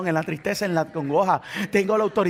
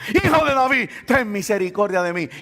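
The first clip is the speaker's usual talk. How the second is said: raised call that drops back; acted crying out. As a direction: call out to be heard, not yet at full force. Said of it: "Y él gritaba más duro".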